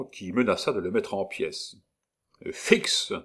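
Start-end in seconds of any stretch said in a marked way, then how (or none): 2.5-3.1 clipped command. Acted. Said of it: "commanda Gondrequin Militaire".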